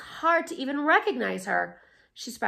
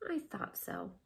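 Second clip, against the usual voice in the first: with a smile; 3 semitones lower, 10 dB quieter than usual. Acted. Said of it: "the old woman said with a smile".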